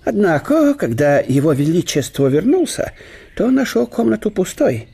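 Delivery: лёгкий голос весёлого гостя; говорить бодро и со смешком; добродушный немецкий профессор. Acted. Штелин пересказывает дворцовую историю. (гость бодро утешает больного хозяина)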